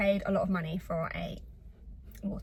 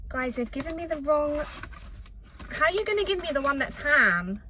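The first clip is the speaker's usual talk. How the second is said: upset; 5 semitones higher than usual. Real, not acted. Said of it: "I'm actually so upset".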